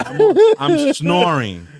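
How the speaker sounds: laughing while telling it; chuckling through the words. Real, not acted. Laughing at own video.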